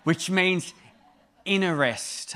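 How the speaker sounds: "Eirene" with a put-on Greek accent. Shown as a demonstration. Preacher giving "Eirene" a Greek accent. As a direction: say "Eirene" like a native Greek speaker. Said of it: "kinda say it with an accent".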